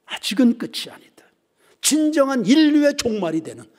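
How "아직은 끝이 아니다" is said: full voice. Acted. Preacher declaring the warning aloud to the congregation. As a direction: proclaim it after the whisper. Repeat aloud after whisper.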